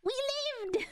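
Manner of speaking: sudden high yelp; real yelp of pain at the game; shout. Real, not acted. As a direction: cry out at the bad roll. Game loss reaction.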